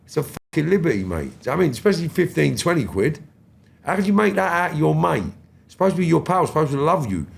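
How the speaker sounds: rising outrage, the pace picking up at the end; indignant rant. Retold or imitated. Ranting at a mate who rips people off.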